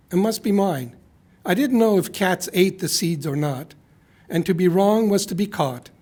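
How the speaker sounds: lightly performed poem reading; poetry reading. Acted. Reading a friend's apology poem aloud, light poetry reading. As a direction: read the note as a playful poem.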